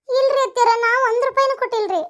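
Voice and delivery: anxious, high denial to an accuser; pleading denial. Acted. Accused daughter-in-law denies paying money.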